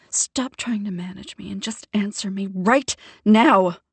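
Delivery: loud, forceful demand; angry demand. Acted. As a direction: insist he answers now. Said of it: "I demand".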